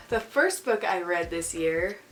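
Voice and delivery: blocked nose from a cold; stuffy nose. Real, not acted. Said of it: "Sorry if I sound stuffy".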